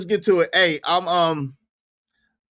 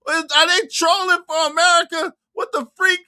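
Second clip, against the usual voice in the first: high-pitched, baffled exclamation; comically scandalized; incredulous; 9 semitones higher than usual. Real, not acted. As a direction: protest in a high disbelieving voice. Disbelief at the clip.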